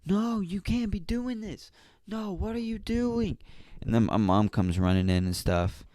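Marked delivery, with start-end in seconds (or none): 0.1-3.4 retold yelling. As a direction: squeal it like an outraged little kid. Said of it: "I started yelling".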